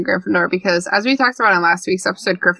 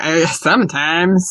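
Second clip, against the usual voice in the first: condescending Siri; 3 semitones lower, slower than usual. Retold or imitated. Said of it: "She always talks to me like I'm stupid".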